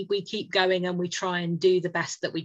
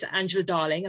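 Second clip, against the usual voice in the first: posh voice. Retold or imitated. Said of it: "she'll do in her best posh voice".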